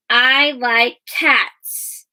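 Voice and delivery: each word slow and clear; slow modeled reading. Shown as a demonstration. Teacher reading a sentence slowly to pupils. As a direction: read it slowly for the class. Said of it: "teacher models slow sentence reading".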